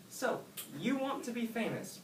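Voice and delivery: high, lilting fairy voice; a magical helper asking kindly; fairy godsnail greeting Oscar. A narrator's reading.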